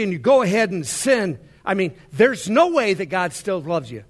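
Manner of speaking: loud, scornful accusing devil; mock accuser heaping shame. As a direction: hammer the sinner with blame. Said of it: "the devil says".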